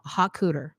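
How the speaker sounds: "hot cooter" as an Americanized haute couture; all-American pronunciation. Shown as a demonstration. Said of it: "I'm gonna go all American".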